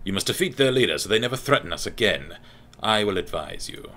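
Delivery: haughty elf adviser; measured elven champion voice; Altmer voice. Acted. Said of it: "give him my Altmer voice".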